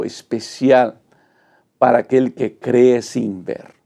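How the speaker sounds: ordinary talk, nothing marked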